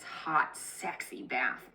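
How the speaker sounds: slow, whispered, mock seductive; mock sultry. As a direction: drag out the bath like a tease, tongue in cheek. Naomi coaxing Ruth, acted seduction.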